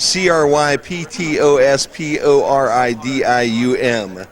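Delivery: slow, letter by letter; spelling it out. Shown as a demonstration. Host spelling a hard word for a student, letter by letter. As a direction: spell each letter out slowly and separately.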